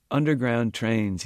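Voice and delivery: slow, loud and insistent; emphatic. A narrator's reading. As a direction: lean hard on each word.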